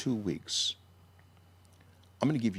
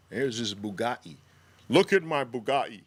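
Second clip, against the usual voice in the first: mock show-off; 3 dB louder than usual. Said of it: "That's how they say it now".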